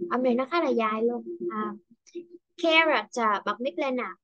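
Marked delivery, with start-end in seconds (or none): 2.6-3.3 "character" hit on CHAR, higher; stress on first syllable. Shown as a demonstration. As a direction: punch the opening syllable of "character". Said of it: "càng phải đánh âm nhấn vào ha".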